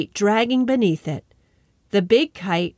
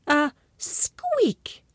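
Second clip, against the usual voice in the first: squeak; 5 semitones higher, 4 dB quieter than usual. A narrator's reading. Narrator voices mouse squeak.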